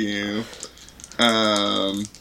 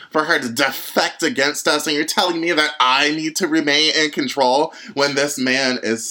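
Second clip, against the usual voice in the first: furious rant. Acted. In-character furious rant at captain.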